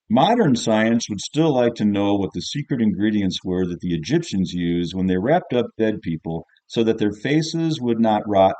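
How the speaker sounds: teacher reading essay aloud. Acted. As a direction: read the pupil's essay out with heavy emphasis. Teacher reads pupil's essay aloud.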